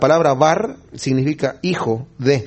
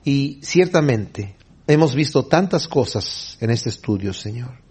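lower, measured address to God; subdued congregational prayer; closing prayer; 4 semitones lower than usual. Real, not acted. Closing prayer after "Oremos.

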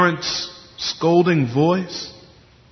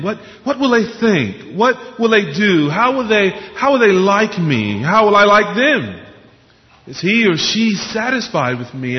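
anxious questioning; 5 semitones higher than usual. Acted. Voicing anxious questions about people's opinions.

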